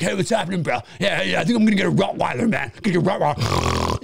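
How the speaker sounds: tough bro voice. Retold or imitated. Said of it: "big tough guy".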